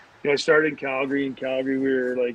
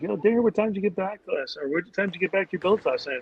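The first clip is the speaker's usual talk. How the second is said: imitating the coach; 6 semitones higher than usual. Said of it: "he's like".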